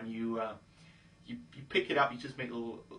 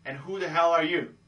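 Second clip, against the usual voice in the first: cocky challenge, HELL pitched up; cocky, slightly raised demand; really cocky; 4 semitones higher, 4 dB louder than usual. Shown as a demonstration. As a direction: confront them with swagger. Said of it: "being really cocky".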